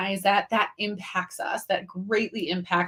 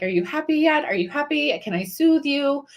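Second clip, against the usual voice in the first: lightly acted, higher-pitched pleading questions; a hint of eager-to-appease, pitched up; anxious people-pleasing; 5 semitones higher than usual. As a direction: check on them anxiously, voice lifted. Acting out a people pleaser soothing others.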